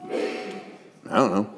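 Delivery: soft, very slow I don't know; quiet resigned. Acted. Mary answering the questioner, soft and very slow. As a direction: let I don't know trail out hushed and slow.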